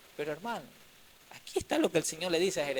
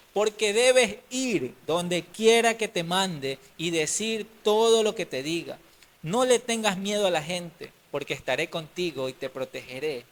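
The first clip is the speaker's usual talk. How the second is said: commanding divine voice; 5 dB louder than usual. Acted. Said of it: "me contestó el Señor".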